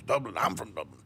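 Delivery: mock-Irish delight, falling low; hokey Irish accent, claiming kinship; lame Irish brogue. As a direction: joke Irishman in a bad brogue. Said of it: "do a lame brogue too here".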